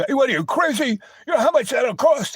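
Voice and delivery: high, mocking disbelief with a laugh; incredulous diner guy. Diner guy scoffing at penniless boys, high and laughing. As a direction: scoff at the crazy order. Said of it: "the guy comes".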